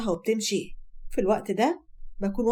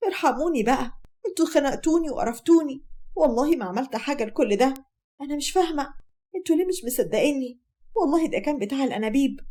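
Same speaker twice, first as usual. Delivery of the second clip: pleading, pitched a little up; exasperated protest; 4 semitones higher than usual. Acted. Accused wife pleading with her in-laws, exasperated. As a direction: protest your innocence, fed up.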